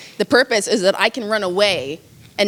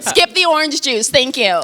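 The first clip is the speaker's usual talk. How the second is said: higher, airy first-class request; a pampered traveller ordering a drink, higher voice; posh passenger; 4 semitones higher than usual. Pretend. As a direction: ask the flight attendant sweetly for more. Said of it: "I'm here being like".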